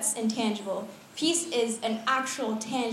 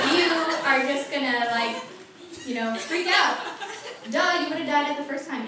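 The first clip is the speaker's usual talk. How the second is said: mock exasperation; 4 semitones higher than usual. Imagined exasperated God scolding Gideon.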